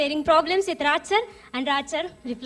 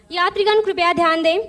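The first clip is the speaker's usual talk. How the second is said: station announcer voice; like a train platform announcement; railway announcement; 2 semitones higher, 5 dB louder than usual. Pretend. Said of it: "तो train से चले सब".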